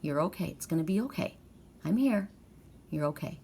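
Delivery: soft, tender reassurance; soothing reassurance. Retold or imitated. Owner answering the crying cat, softly soothing. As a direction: gently comfort the little cat. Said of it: "I say".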